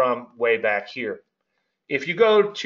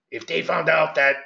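friend's way of talking, pitched higher; imitated friend; 4 semitones higher than usual. Trader quoting an old friend, lightly imitated. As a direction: lightly mimic a friend's speech. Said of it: "this is how I really talk".

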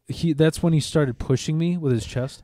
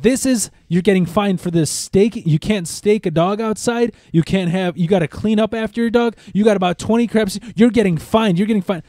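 higher and louder stern lady reprimanding; scolding official; 7 semitones higher, 5 dB louder than usual. Retold or imitated. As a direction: lay down the rules like an angry inspector. Association lady scolding, retold.

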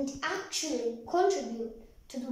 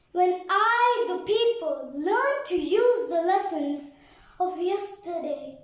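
poem recitation. Acted. Pupil reciting a poem to an audience, declaimed with care. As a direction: recite with deliberate pauses between phrases.

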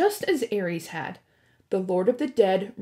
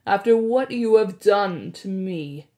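louder oily accusation; smarmy blackmailer; 5 dB louder than usual. Acted. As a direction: lean on the accusation, oily and cold. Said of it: "in an oily voice".

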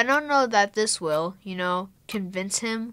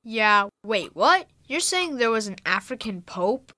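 surprised. Acted. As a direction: caught off guard, voice jumping up on the last word. Boy stunned by the claim.

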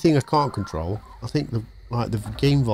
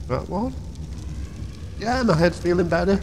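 high auto-tuned effect; auto-tune voice; 8 semitones higher than usual. Shown as a demonstration. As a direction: run it through auto-tune. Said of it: "Oh, that was auto-tune".

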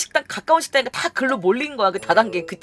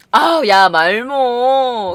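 exasperated outburst; 6 dB louder, much slower than usual. Real, not acted. Exasperated outburst mid story.

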